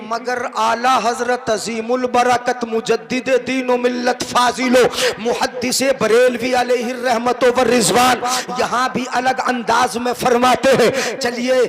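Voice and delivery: measured preaching cadence; sermon declamation. Acted. Preacher introducing Ala Hazrat's verse, formal declamation. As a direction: declaim the titles and verse steadily.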